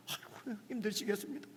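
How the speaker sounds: soft, whispered fake pastor's sympathy; mock sympathy. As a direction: hush it like a pastor humoring a complaint. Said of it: "이렇게 할 수밖에". (속삭이듯 흉내 내는 가짜 위로)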